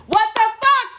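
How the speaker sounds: high, slow, incredulous what the fuck; outraged disbelief. Retold or imitated. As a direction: let the indignation burst out. Angry at friend siding with ex.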